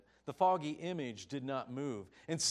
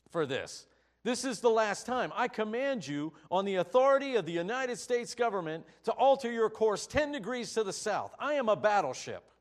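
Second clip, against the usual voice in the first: loud, high, furious captain's threat, pushing fast; fast, furious shout at the private; angry growl; 6 semitones higher, 9 dB louder than usual. Acted. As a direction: roar it like an outraged captain pulling rank. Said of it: "the captain growled back over the radio".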